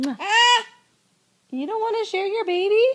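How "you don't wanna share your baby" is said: mock hurt. Playful mock hurt to toddler.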